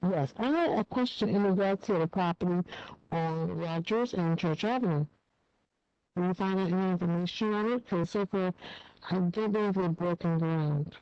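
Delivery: speaking through a hand over the mouth; muffled, covered-mouth speech. Real, not acted. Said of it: "I'm sorry, you're muffled".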